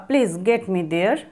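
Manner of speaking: patient teacher's model reading; slow model phrase. Shown as a demonstration. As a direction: say it out slowly, twice, for learners. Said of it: "তো তাকে এভাবে বলো".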